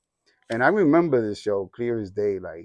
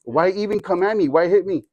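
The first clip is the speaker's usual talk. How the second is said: higher, lightly voiced indignant questioning; little kid; 6 semitones higher, 3 dB louder than usual. Little son questioning dad's mixed messages, lightly voiced kid. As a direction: protest like a baffled child, a touch louder. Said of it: "this is me as a little kid".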